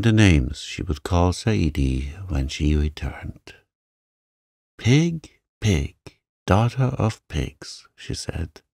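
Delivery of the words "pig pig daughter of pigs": higher-pitched, acted childish insult; a touch of acted anger, pitch jumping up; angry muttering. A narrator's reading. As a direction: spit out the name-calling, mildly angry. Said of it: "growing more and more angry and muttering".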